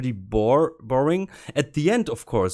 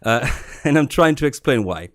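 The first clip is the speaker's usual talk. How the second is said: put-on German accent. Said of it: "so I read it with my German accent".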